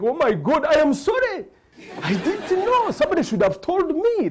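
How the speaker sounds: high, loud panicked apology; high, loud flustered sorry. Retold or imitated. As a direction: blurt it out, suddenly sorry. Tugume jumps up apologizing.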